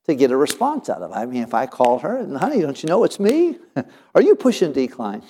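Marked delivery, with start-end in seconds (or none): 2.4-5.2 high, laughing plea, a little louder; teasing wife who won't answer, laughing through it; mock plea to wife. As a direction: laugh as you beg her to pick up. Calling wife, voicemail.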